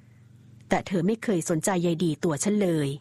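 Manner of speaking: hoarse lament. Acted. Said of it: "เขารำพันด้วยเสียงแหบห้าว".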